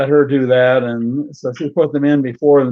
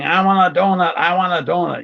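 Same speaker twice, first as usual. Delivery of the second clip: put-on bratty kid; 5 semitones higher than usual. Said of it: "the kid is screaming".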